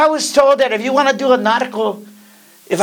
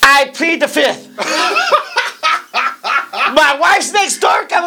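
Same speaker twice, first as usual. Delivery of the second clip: laughing; 3 semitones higher than usual. Real, not acted. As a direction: laugh it off, wife's within earshot. Laughing, evasive about betting.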